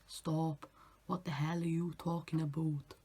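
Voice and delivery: lightly imitated accent, rounded vowels; imitated TikTok accent. Vlogger mimicking a TikTok voice stuck in their head, imitated accent. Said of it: "I've just got his voice imprinted in my brain".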